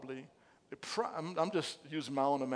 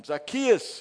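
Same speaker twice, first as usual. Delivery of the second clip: calling out; 4 semitones higher, 9 dB louder than usual. A narrator's reading. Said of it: "he said".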